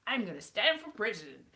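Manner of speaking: badly faked American politician accent; attempted American accent. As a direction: put on a shaky-handed American accent, stretched at the end. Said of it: "I have not mastered any of the accents".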